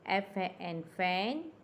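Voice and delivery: slow એફ એ એન, then ફેન; slow spelling. Shown as a demonstration. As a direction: spell each letter slowly, then say fan. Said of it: "સમાન ઉચ્ચારવાળા શબ્દો".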